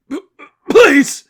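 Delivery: high, loud pleading cry; desperate plea. Acted. Beaten seraphim begging Angel to stop, high loud cry. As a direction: beg for it to stop.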